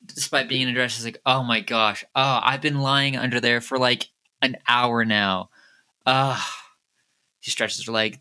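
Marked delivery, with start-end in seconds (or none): 1.3-6.4 relieved complaint. Acted. Woman crawls out from hiding, complaining.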